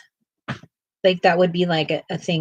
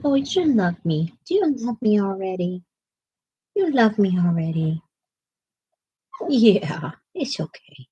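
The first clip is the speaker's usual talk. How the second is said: fond coo. Real, not acted. Cooing to the pet.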